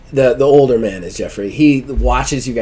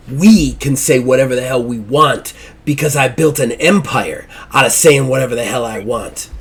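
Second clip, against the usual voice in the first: hard, rising rant into son's face; bullying father; 2 semitones higher than usual. Acted. Jeffrey gets into his son's face, domineering rant. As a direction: lean into the son and lecture.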